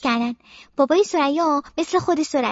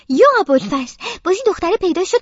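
louder mother's exasperated outcry; 4 dB louder than usual. Acted. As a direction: groan at the noisy girl at the door. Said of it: "مامانم میگه".

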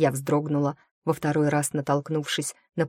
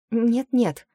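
breathed out; 7 semitones higher, 4 dB louder than usual. A narrator's reading. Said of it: "выдохнула я".

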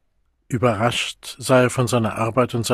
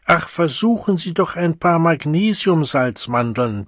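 soothing; 5 semitones higher than usual. Acted. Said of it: "begütigte der Mann".

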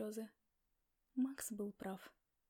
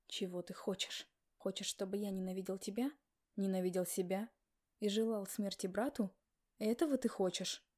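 angry confrontation; 2 semitones lower, 3 dB louder than usual. Acted. Max confronts her in anger.

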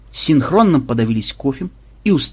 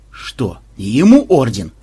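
slow, sulky grumble; a put-out mock grumble; grumbling; 5 dB louder than usual. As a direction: begrudge the medal aloud. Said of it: "проворчал Банзай".

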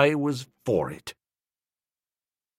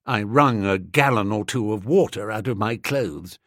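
usual speaking voice

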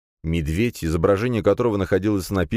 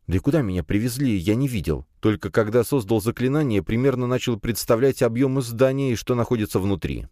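lightly voiced youth explaining himself, a little higher; slightly higher, halting self-justification; nervous young man; 6 semitones higher than usual. (слегка взволнованный парень оправдывается)

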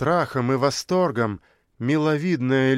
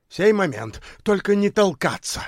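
high, raised warning; loud warning; 6 semitones higher than usual. A narrator's reading. Anastas warning pushing tramps, loud and high. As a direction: hold the crowd back. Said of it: "громко предостерёг их".

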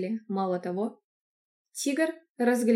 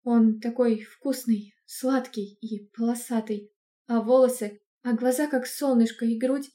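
growing rapture; 3 dB louder than usual. Acted. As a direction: swoon more and more as you go. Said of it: "тем больше воодушевлялась и восторгалась". (восторг нарастает)

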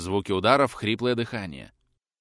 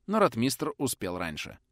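normal talking voice

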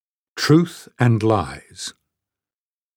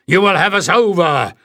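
angry roar; 6 semitones higher than usual. A narrator's reading. Bada shouts at Jasmine as the boat rocks. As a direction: yell it like the boat is tipping. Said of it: "roared Bada".

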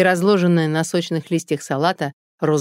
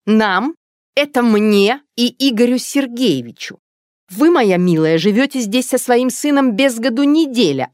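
higher, louder scolding; angry; 9 semitones higher, 5 dB louder than usual. Acted. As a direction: berate the mother about her son. Angry neighbour's tirade. (злой раздражённый выговор)

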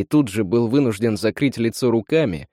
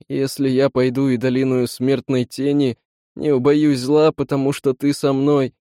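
doomed prayer; 3 semitones higher than usual. Acted. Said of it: "обречённые голоса братьев".

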